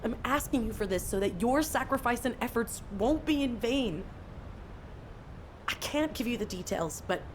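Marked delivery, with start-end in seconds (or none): 0.0-4.0 urgent, insistent pleading; earnest appeal. Acted. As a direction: press your case to a hurt friend. Freyna argues back, begging for help.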